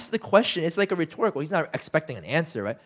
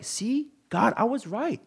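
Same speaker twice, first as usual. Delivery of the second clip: raised told-you-so; 6 semitones higher, 3 dB quieter than usual. Retold or imitated. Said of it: "for him it feels like".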